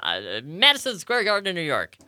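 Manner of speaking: lightly voiced wrestling ring interviewer; a hint of old wrestling announcer; Mean Gene Okerlund. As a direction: announce the big match, lightly in character. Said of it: "do my Mean Gene Okerlund impersonation".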